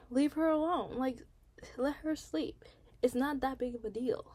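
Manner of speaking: high, exasperated defense; indignant. Real, not acted. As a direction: stand up for her, fed up.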